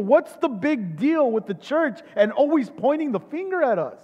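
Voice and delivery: a hint of a self-righteous critic protesting his goodness; world's complaint. Preacher voicing the world griping at the church, mildly indignant. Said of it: "this is how the world sees the church".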